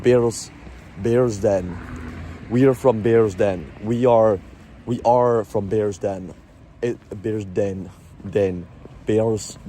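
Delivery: slow, practised posh Bearsden accent. Shown as a demonstration. Rehearsing where we are from, Bearsden accent. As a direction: draw out each word in posh Glasgow. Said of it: "I need to work on my Bears Den accent".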